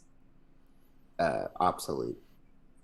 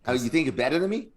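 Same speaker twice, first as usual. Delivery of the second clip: fast mock Boston tough guy; Boston accent; 4 semitones higher, 4 dB louder, much faster than usual. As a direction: Bostonian taunt, rushed. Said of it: "That's what they say in Boston".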